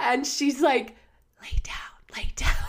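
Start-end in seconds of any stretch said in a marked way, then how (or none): 1.4-2.6 imitated whisper. Retelling the lady in a hot yoga class urging lying down: imitating a whisper. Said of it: "whispering to me".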